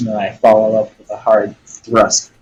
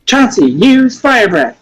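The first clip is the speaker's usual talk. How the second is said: high, loud, drawn-out trainer command; Pokemon trainer; 11 semitones higher, 5 dB louder than usual. Acted. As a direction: call it out like an anime battle. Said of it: "can you do it like you're playing Pokemon?".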